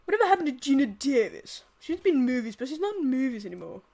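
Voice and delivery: lightly put-on cartoon baby voice, loud opening; quick, emphatic cartoon impression attempt; Stewie. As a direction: ask it briskly in character. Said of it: "let me try Stewie".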